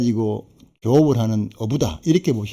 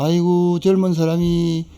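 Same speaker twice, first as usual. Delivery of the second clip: put-on elderly villager; 6 semitones higher, slower than usual. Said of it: "경상도 말로 그렇죠".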